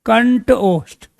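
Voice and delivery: कंठ ओष्ठ said slowly, each word set apart; slow teacher's dictation of कंठ ओष्ठ; slow, deliberate dictation. Shown as a demonstration. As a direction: spell out कंठ ओष्ठ slowly for the class, a firm fall on कंठ. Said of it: "ये क्या है?".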